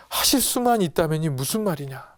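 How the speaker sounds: mild acted indignation; sudden anger. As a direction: challenge it with a touch of rebuke. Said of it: "버럭 화를 내요". (살짝 버럭 화내듯이)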